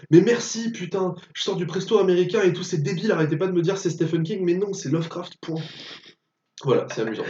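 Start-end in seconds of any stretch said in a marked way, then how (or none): 0.1-5.6 lightly acted exasperated rant; imitated exasperated director. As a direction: retell a fed-up outburst of relieved thanks. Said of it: "Et Carpenter, il fait".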